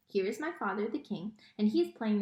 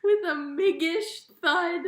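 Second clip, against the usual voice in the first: tag; 6 semitones higher, 7 dB louder, slower than usual. Real, not acted. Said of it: "I can't even say it".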